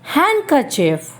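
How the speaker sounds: handkerchief as "hankerchif", silent D; slow handkerchief with no D; correct pronunciation. Shown as a demonstration. Teacher to students, slow "hankerchif". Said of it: "it is".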